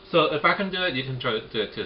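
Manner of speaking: talking through a mouthful; words round a bite of dumpling; mouth full. Real, not acted. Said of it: "Sorry, I'm talking with my mouth full".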